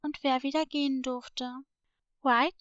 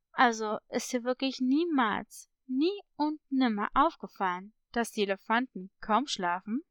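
lightly voiced parrot, sinking lower at the end; probing parrot; 3 semitones lower than usual. Parrot pressing a doubtful girl about sleepless elephants, probing. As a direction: press the point with leading emphasis.

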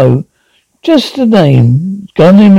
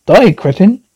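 put-on British accent; 2 semitones higher than usual. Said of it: "British accent".

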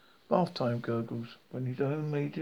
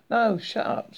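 urgent hush; 8 semitones higher, 6 dB louder than usual. Acted. Ford hushing Arthur urgently.

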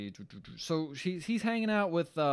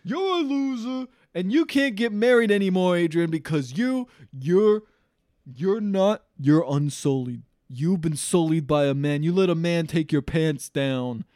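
put-on drunk ranting; 3 semitones higher, 8 dB louder, slower than usual. Drunk brother berating his sister, loud slow tirade. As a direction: lay into her like a drunk bully. Drunk Paulie insults Adrian.

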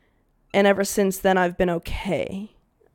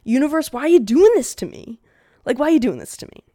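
mock wail; 6 semitones higher, 6 dB louder, faster than usual. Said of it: "It's like".

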